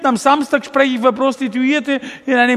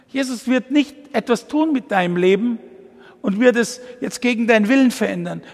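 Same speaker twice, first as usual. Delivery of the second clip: normal talking voice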